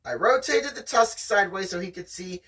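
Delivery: steady read-aloud storytelling voice; story narration. Acted. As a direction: read it like the audiobook. Reading the novel aloud.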